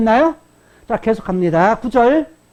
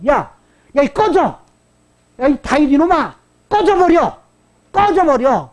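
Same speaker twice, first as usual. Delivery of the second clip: acted scornful outburst, pitched up; contemptuous; 4 semitones higher than usual. Shimei insulting King David with no respect, acted contempt. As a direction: dismiss him as beneath you, in a higher voice. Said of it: "무시하면서".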